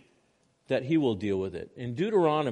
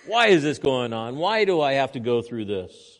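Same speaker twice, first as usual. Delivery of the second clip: louder, exasperated complaint to God; complaining prayer; 6 dB louder, slower than usual. Acted. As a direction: groan out the why like a fed-up believer. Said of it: "It's like".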